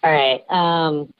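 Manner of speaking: electronically disguised voice; voice changer. Real, not acted. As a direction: speak through a voice changer. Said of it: "even with the voice changer".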